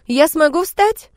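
slow, high, loud hopeful question; hopeful disbelief. Acted. Girl asks if she can walk, hopeful and amazed. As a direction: ask with rising hope.

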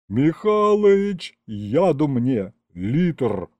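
melodramatic despair. Acted. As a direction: play the dying martyr, stretched out. Teodor verlangt theatralisch Gift.

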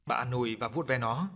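usual speaking voice

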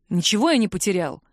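ordinary delivery

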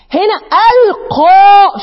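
ألقى drawn out slowly, loud and high on the ق; heavy stress. Shown as a demonstration. Teacher showing the heavy قاء of ألقى, loud and slow. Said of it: "شوف قاء قد إيه؟".

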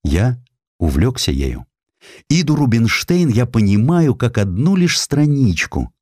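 ordinary talk, nothing marked

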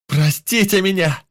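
high, loud begging shout; a hero screams his apology to the drowning; shouting at the top of his lungs. Acted. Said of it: "закричал я во всё горло".

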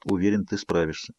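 soft, low encouraging whisper; whispered pep talk. A narrator's reading. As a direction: hush it, reassuring. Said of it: "прошептал Эдвард".

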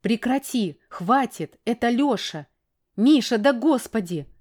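wife shouting at husband to stop the fight; frantic scolding. A narrator's reading. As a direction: make him stop now.

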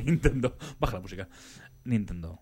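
breathy come-hither whisper; sensual voice. Pretend. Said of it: "si te hablas así con voz sensual".

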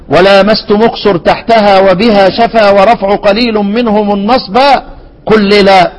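measured, slow chant of a didactic poem; verse recitation. Acted. Teacher reciting the Shatibiyya verse to students.

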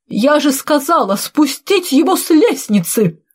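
put-on high-pitched, indignant old-woman order; old woman's bark. A narrator's reading. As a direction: snap the order crossly, pitch up. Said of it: "рявкнула старуха". (сердито, по-старушечьи рявкнув)

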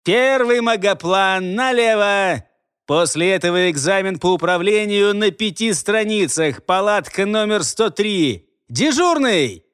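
loud, high stern commands; drill officer barking. A narrator's reading. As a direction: bark orders at the recruits. Officer issuing orders to recruits.

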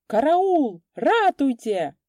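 high, loud panicked wail; wailing for help. A narrator's reading. Sergeant wails for help as the shot rings out. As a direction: howl for help in terror. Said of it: "завопил старшина".

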